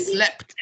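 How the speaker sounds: "slept" with a clear final T; T-sound ending. Shown as a demonstration. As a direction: release the t at the end of "slept". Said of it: "the sound is a T sound".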